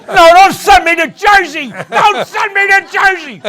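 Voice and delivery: put-on shouted high, pleading like a kid; mock child's plea. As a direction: yell it like a little boy begging not to go. Child begging not to move.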